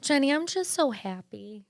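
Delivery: happy teary bride. Retold or imitated. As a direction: lightly voice a bride near tears of joy. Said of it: "And she goes".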